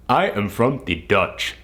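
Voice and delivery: measured delivery in a put-on African accent; imitated African accent. Boss claiming to be Dutch, imitated African accent. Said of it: "he had the thickest African accent".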